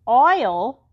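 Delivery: loud outraged holler. Acted. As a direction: blurt it in disbelief. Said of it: "Imogene hollered".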